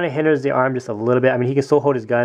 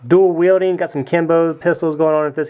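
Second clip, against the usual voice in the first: dramatic flourish; 5 semitones higher, 4 dB louder than usual. Acted. Showing off pistols in both hands.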